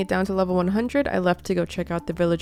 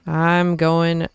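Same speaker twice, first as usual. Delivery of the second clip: defiant; 5 dB louder, much slower than usual. Acted. Storming off after the cancelled date.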